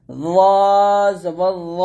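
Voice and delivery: long, thick র sound; heavy za. Shown as a demonstration. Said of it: "র মোটা করতে হবে". (র মোটা করে টেনে)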